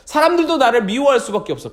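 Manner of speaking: usual speaking voice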